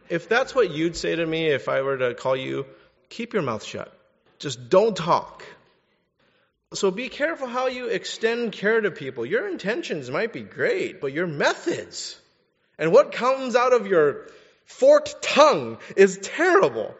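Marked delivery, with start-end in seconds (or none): 3.1-5.4 blunt rebuke. Real, not acted. Scolding bad comforters. 12.8-16.9 emphatic rebuke. Real, not acted. Preaching rebuke.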